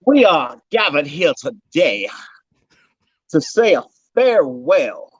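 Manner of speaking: solemn funeral speaker, tongue in cheek; mock eulogy. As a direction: deliver it like a graveside eulogy. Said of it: "we're gonna ask you to do a eulogy".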